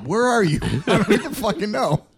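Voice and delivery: high, laughing while talking; giggling through it. Real, not acted. Laughing retelling.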